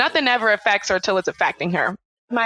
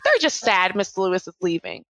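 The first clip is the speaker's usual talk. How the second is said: offhand, mildly imitated child's reply; nonchalant; 2 semitones lower than usual. Daughter casually explains to mom why classmates cry, nonchalant. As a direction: toss it off casually, as if it hardly matters. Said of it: "very nonchalantly".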